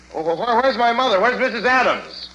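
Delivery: high, stammering fear; frantic stammer. Acted. Son asking the stranger for his mother, frantic. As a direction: stumble as fear rises.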